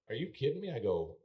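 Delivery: incredulous pushback at the official; retold disbelief. Retold arguing over the fine.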